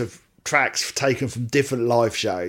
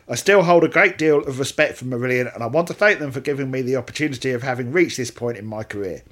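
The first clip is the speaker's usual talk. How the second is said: mock voice of a singer; 2 semitones higher, 4 dB louder than usual. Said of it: "It's not even Scottish".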